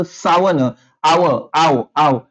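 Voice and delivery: "सावन" cut down to a repeated long "आव"; demonstrated pronunciation. Shown as a demonstration. Teacher letting students hear the sound, deliberate repeated "आव". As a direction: isolate "आव" with a long first vowel. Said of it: "कशाचा उच्चार झाला".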